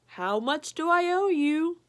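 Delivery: lightly voiced polite dog. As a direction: ask the delivery man. Dog pays pizza man.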